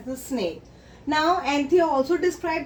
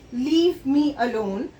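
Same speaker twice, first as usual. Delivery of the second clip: shouted. Acted. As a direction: shout it, leave me alone. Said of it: "So this creature shouted".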